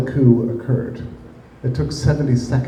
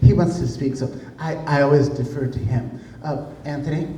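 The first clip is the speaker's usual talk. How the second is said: mock nervous prattle; 3 dB quieter than usual. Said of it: "she's like this nervous prattle".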